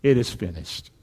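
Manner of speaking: low, soft echo of the verse; hushed reflection. A narrator's reading. Preacher repeating Jesus' last words to himself, hushed. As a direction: let it sink down low and quiet.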